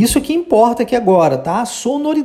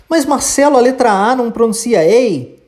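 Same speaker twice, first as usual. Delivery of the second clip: student asking; 4 semitones higher than usual. Pretend. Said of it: "student question voiced".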